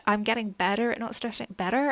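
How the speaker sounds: American-sounding "better", as in "bedder"; accidental American accent. Real, not acted. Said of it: "I don't know why I went American".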